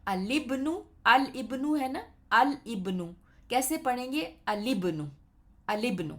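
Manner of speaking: "الابن" read as alibn, the middle hamza dropped; model reading. Shown as a demonstration. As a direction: say الابن in one flow, l straight into ibn. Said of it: "حمزہ ہے وہ drop ہو جائے گا".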